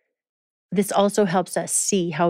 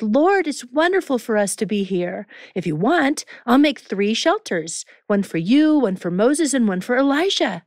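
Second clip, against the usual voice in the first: exclaiming; 4 semitones higher than usual. Acted. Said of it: "Peter exclaimed".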